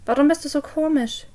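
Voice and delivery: trembling voice. A narrator's reading. Parent seeing Jess in the dark cellar, trembling. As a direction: say it with fear creeping in. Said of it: "mit zitternder Stimme".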